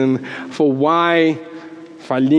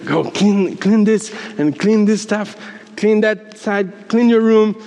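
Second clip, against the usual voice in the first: higher, mock-bossy mother; mom giving orders; 5 semitones higher than usual. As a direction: rattle off chores like an imitated mom. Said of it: "my mom is giving us orders".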